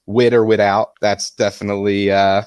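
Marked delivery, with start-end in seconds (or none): 0.1-0.9 "With or without" as "wit or witout"; Philly pronunciation. Shown as a demonstration. Debater showing how to order cheesesteaks, "With or without" as "wit or witout". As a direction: drop the th to a t in "With or without". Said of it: "part of the Philly accent".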